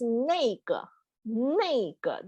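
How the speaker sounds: "nega" said slowly as nay-guh; demonstrated pronunciation. Shown as a demonstration. Teacher shows students the pronunciation, "nega" carefully sounded out. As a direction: sound out "nega", falling at the end. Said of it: "that's the pronunciation".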